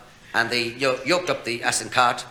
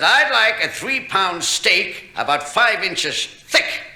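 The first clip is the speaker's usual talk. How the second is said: slow, mock American drawl, lightly done; American accent; 5 semitones higher, slower than usual. Irish comedian imitating an American tourist ordering, slow drawl. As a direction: draw it out like a brash American. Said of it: "the American said".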